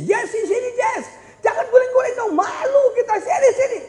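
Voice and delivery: calling out. Retold or imitated. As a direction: call the kid back, embarrassed.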